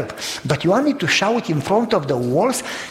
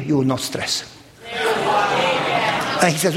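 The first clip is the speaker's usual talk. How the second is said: calm reassurance. Retold or imitated. Son calmly answering the friend.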